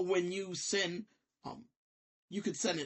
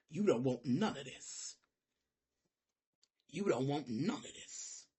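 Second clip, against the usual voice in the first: much softer and lower, a quiet threat; low menace; 8 semitones lower, 10 dB quieter than usual. Real, not acted. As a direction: drop the voice into a cold warning.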